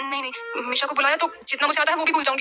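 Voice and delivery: put-on high girlish voice, fretting in panic; worried young girl. Ishki panicking to herself about wearing a sari, high and girlish. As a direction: fret to yourself over the sari.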